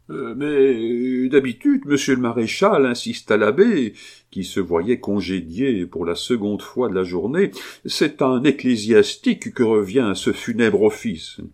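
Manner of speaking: a wheedling cleric refusing to leave; insistent priest. Acted. (l'abbé insiste, hésitant puis plus fort)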